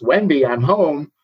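lightly voiced singsong homecoming call; imitating Jack. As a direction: draw out a playful announcement of arrival. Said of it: "Jack has chopped his way through the front door and goes".

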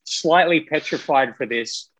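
talking through fake buck teeth. Real, not acted. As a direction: speak around a set of fake teeth. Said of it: "I have just put in my fake teeth".

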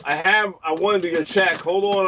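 calling out from across the room; calling from far away. Real, not acted. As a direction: raise the voice to reach the other room. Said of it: "I'm yelling over here".

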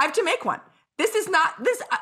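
high, giggling through the words; can barely finish for laughing; squeaky laughing retelling. Real, not acted. Laughs retelling pregnancy joke.

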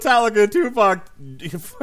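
high, loud, hammed-up rattling off of names; mock fan shouting band names; mock excited rant. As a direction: play the overexcited fan listing bands.

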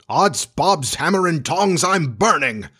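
high, sing-song yelp of alarm; alarmed outcry. Acted. Hook leaps from the hot mushroom, crying out in alarm.

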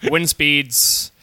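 calm airline captain; pilot voice. Pretend. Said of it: "the pilot voice".

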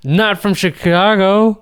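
slow, exaggerated "Chicago" in protest; odd-sounding Chicago. Real, not acted. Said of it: "why did you sound like that".

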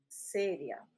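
"seria" slowly, stressed on the first syllable; pronunciation model. Shown as a demonstration. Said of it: "¿Eso es seria?". (seria despacio, con el acento en "se")

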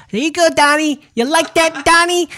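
high, breathy-free mocking falsetto as the woman; mock seductive high voice cooing at Donnie; hammed-up high coaxing voice; voicing Stormy Daniels. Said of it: "That's a very bad Trump".

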